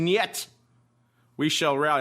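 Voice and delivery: put-on a quick jokey Russian accent; mock Russian accent. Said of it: "I'm not sure why I'm talking like a Russian".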